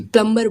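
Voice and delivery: प्लम्बर with the B sounded, Indian English style; Indian English pronunciation. Shown as a demonstration. Defending Google's Indian English version, प्लम्बर with B sounded. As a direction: pronounce the B in प्लम्बर. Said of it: "Indian English accent में".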